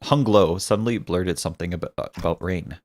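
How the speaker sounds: low, soft narrator's read; story narration. A narrator's reading. Narrator telling of Hung Lo's sudden blurt, low narration. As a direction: narrate it quietly and evenly.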